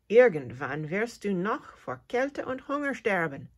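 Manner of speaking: mildly grumpy scolding mother; a touch of a cross mum telling off the cricket; understated grumbling reproach. Acted. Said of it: "sagt Leos Mama mürrisch".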